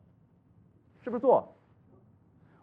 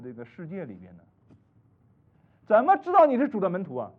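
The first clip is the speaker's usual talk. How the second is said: retold rebuke; 4 semitones lower than usual. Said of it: "哎呀，我说".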